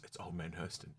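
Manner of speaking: lightly voiced old man; hint of a grumpy old man; Old Man Hurston voice. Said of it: "Old Man Hurston voice".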